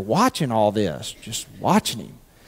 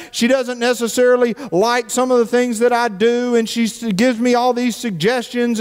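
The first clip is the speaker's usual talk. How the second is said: higher whiny list of gripes; griping husband; 6 semitones higher than usual. Retold or imitated. Husband griping to the pastor about his wife, higher and whiny. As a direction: moan through the grievances. Quoting men listing complaints.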